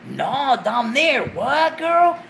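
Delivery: high shocked shout; shocked homegirl shout. Retold or imitated. Homegirls gossiping about a shaved boyfriend, shocked shout. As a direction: yell it like a stunned friend. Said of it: "homegirls that say".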